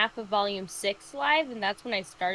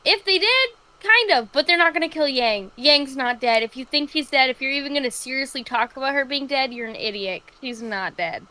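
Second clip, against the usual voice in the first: exasperated rant; 3 semitones higher, 5 dB louder than usual. Retold or imitated. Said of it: "I'm like".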